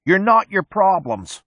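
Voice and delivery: shouting. A narrator's reading. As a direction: pick up the chant from the back seat. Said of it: "A space monkey in the back seat picks it up".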